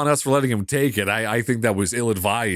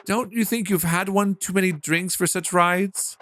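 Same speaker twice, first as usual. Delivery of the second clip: daughter's higher, lightly British voice; British accent; 5 semitones higher than usual. Acted. Daughter to father about too many drinks, British accent. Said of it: "she's got a British one".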